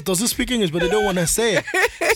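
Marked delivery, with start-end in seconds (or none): 0.0-0.7 imitated curious girls. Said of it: "the next question is".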